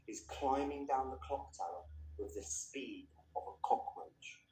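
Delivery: measured literary reading voice; story narration. A narrator's reading. Narrator reading a novel's chapter to listeners, measured. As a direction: read the chapter aloud, unhurried and grave.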